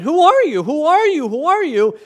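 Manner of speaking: high, loud, insistent questioning; repeated demand. Retold or imitated. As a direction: hammer the question. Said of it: "asking over and over and over".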